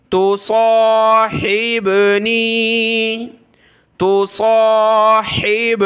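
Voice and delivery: साहिबनी with ha from the throat, slow. Shown as a demonstration. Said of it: "हा को गले से निकाले".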